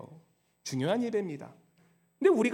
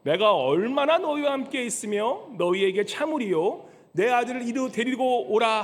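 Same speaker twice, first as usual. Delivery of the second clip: Jesus rebuking; 4 dB louder than usual. Acted. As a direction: lean on every word like a stern master. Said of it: "예수께서 대답하여 이르시되".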